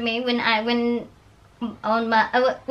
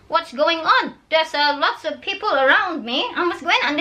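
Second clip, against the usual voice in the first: retold panic; 5 semitones higher than usual. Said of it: "And I'm saying".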